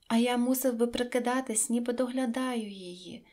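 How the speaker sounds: plain reading voice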